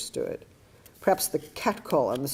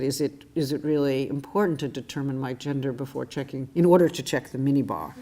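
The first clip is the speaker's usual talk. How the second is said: nasty retort. Retold or imitated. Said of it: "I kinda leaned forward and I said".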